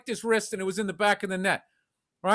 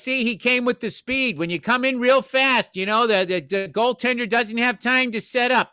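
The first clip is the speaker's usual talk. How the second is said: lightly voiced know-it-all, raised pitch; mock a guy pushing his theory; a hint of a higher, dopey pundit voice; mocked commentator; 3 semitones higher, 3 dB louder than usual. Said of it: "that's how he sounded to me".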